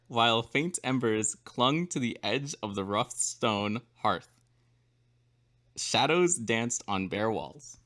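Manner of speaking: slow, measured read of a descriptive passage; reading aloud. Acted. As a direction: read it out slowly, word by word. Reads the given text aloud.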